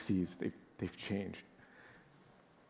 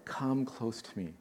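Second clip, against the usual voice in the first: gentle repeat; 2 semitones higher, 6 dB quieter, slower than usual. Shown as a demonstration. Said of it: "Look at the change, right?".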